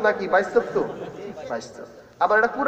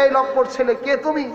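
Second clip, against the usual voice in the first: a hammed-up challenge to the stranger; wife calling out; 6 semitones higher than usual. Wife scolds the man outside her door, mock shout. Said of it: "ডাক দিয়ে বলেন".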